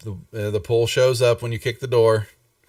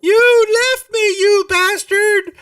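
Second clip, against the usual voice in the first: very high, loud whiny little creature; squeaky hurt companion scolding; high upset fairy voice; 7 dB louder than usual. Acted.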